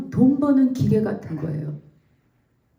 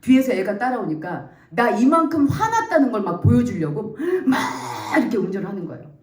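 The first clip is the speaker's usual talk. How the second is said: ordinary talk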